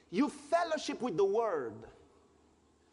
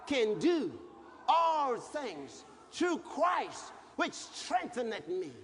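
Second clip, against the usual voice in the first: declaring the verse; slower than usual. Shown as a demonstration. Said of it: "Then you say".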